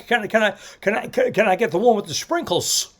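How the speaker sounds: lightly voiced stammering Stewart; a hint of Jimmy Stewart stammer. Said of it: "Here's Jimmy Stewart".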